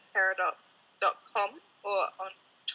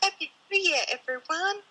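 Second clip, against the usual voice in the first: cheerful greeting; 9 semitones higher than usual. Real, not acted. Cheerful New Year greeting to listeners.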